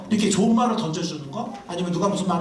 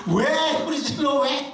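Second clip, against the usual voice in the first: higher, half-laughing mock retort; mock snapping back; 8 semitones higher, slower than usual. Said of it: "막 이러지 말고". (남편이 아내에게 웃으며 흉내 내는 짜증 섞인 되받아치기)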